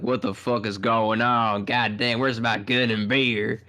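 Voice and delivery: slow hammed-up mock American drawl; lightly voiced American caricature. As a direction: play the clueless gun-toting American. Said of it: "British people probably think all Americans".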